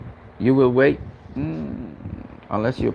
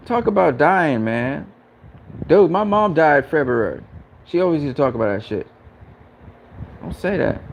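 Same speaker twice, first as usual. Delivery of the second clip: raised voice, pressing on; agitated; 4 semitones higher than usual. Real, not acted. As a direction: shaken and upset, pushing back. Tells chat his mom died.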